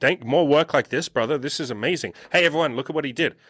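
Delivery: mildly hammed-up amazement, pitch lifting on exclamations; acted burst of delighted praise; amazed boss. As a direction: play an impressed boss lavishing praise. Imagined boss praising great work.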